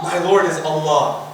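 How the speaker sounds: low, falling, composed answer; settled certainty. Acted. Soul answering the questioners, settled certainty. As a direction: drop the pitch and state it calmly.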